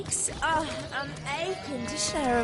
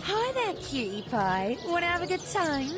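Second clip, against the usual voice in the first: sultry come-on; 8 semitones higher than usual. Acted. Prostitute NPC calling to passerby.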